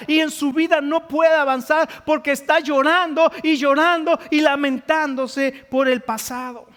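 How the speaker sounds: pressing, emphatic pulpit voice; impassioned preaching. Real, not acted. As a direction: preach it with mounting urgency. Preaches with rising force.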